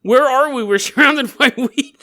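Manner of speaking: lost and fretting, slow then rising; mock panic. Lost girls asking where they are, mock panic. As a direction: play the lost girls fretting, not too heavy. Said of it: "they're like".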